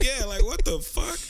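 high, slow, disbelieving drawl; incredulous. Retold or imitated. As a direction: stretch it out in disbelief. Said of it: "He was like".

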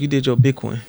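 "big one" in a light Miami accent. Shown as a demonstration. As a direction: say it like they do in Miami. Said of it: "say it how they say it from Miami".

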